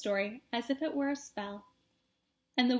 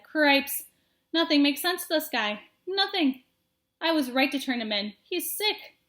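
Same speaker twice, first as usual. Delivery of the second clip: exasperated; 3 semitones higher, 4 dB louder than usual. Acted. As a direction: throw up your hands. Furlow exasperated.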